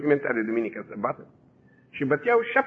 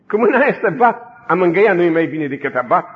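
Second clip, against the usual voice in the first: earnest plea; 6 dB louder than usual. Retold or imitated. Girl pleads with the interrogator.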